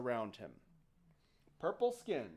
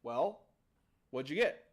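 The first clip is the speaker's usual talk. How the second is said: lower, curt fatherly demand; menacing dad; 5 semitones lower than usual. Acted. Dad at the table questions his returning boy, low demand. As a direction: ask it low and expectant. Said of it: "Dad looks up and goes".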